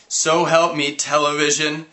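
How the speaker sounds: high, loud yell; screaming. Acted. Liv terrified in the haunted house, screaming. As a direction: scream it in a panic. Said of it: "Liv was screaming".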